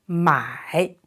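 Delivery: 买 dipping down then rising; third tone mai. Shown as a demonstration. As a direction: say 买 with a low dip and rise. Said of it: "Here it is a third tone".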